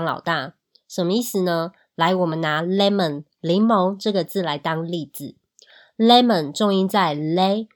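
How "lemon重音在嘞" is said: lemon with the first syllable, 嘞, louder; stress on 嘞. Shown as a demonstration. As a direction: hit 嘞, the stressed start of "lemon". (lemon重音放在第一音节“嘞”)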